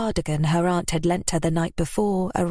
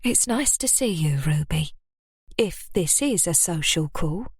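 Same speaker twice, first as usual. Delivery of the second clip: softened tone. Acted. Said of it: "softened her tone".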